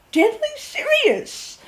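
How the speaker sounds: dead earnest, drawn out; emphatic. Real, not acted. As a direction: lean hard on deadly serious. Insists she means it.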